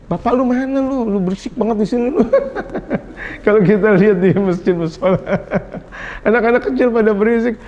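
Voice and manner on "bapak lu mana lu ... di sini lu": brisk mock telling-off breaking into laughter; lightly hammed-up scolding, laughing at the end. Preacher imitates adult berating noisy child at mosque, mock scolding. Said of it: "Nggak dikatain".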